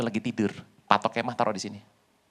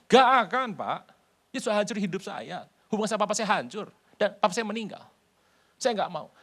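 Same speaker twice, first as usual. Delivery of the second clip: mock woman refusing; 3 semitones higher than usual. Woman refusing pastor's counsel.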